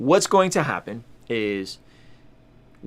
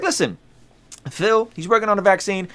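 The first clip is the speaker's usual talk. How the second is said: imitating the pastor; 7 semitones higher than usual. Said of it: "she was like".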